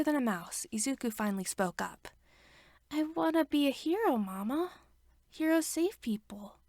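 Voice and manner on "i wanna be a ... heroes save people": put-on earnest small child pleading; four-year-old telling his mother his dream; small boy. A narrator's reading.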